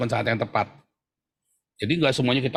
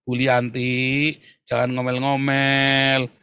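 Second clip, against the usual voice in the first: preachy advisor; 2 semitones lower, much slower than usual. Retold or imitated. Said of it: "Ini orang pengennya menasihati".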